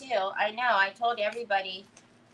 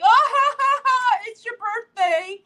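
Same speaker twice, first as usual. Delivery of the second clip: high, loud, hammed-up laugh through the words; mock laughing; 10 semitones higher, 6 dB louder than usual. Imitating her own brush-off of a friend's birthday, mock laughing. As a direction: laugh it off as if it were a joke. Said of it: "I was like".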